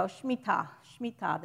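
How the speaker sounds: Shemitah squeezed to two syllables, "shmee-TAH"; shortened pronunciation. Shown as a demonstration. Teacher showing how some people shorten it, Shemitah clipped to "Shmitah". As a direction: drop the vowel after "Sh" in Shemitah. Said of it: "They just forget the middle syllable".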